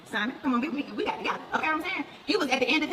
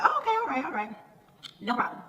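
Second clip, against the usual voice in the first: fake-sweet acceptance. Her fake-sweet reply retold.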